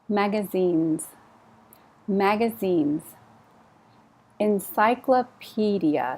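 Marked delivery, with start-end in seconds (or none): 4.4-6.2 Encyclopedia slow, the pe syllable stressed. Shown as a demonstration. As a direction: lean on the pe of Encyclopedia. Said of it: "So the stress is on the P".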